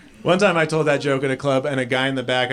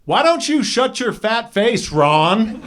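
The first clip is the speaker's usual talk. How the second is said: put-on snotty teen; 5 semitones higher than usual. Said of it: "And she goes".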